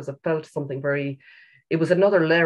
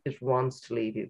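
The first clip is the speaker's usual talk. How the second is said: softer echo, stress on wants; softer repeat; 2 semitones lower, 6 dB quieter than usual. Shown as a demonstration. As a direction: let it sink in gently, quieter. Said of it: "repeated softer".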